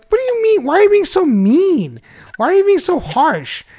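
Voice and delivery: high, plaintive mock hurt; mock wounded protest. Husband to doubting coworkers, mock wounded protest. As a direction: whine it like you've been wronged.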